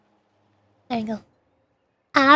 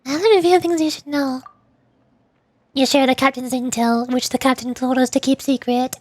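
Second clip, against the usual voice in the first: lightly acted character dialogue, a bit higher than chat; expressive visual-novel style reading; game dialogue read-aloud; 4 semitones higher than usual. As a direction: read the story lines aloud with light acting.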